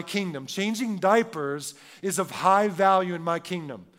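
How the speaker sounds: mildly voiced creator speaking; a hint of God declaring his values; voicing God. Preacher voicing God over his kingdom, lightly. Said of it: "the creator of the world who says".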